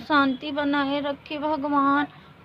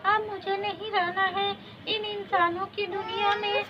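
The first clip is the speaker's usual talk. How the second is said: much softer, despairing lament; sad lament; 2 semitones higher, 5 dB quieter than usual. Acted. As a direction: murmur it in despair. Sad lament over music.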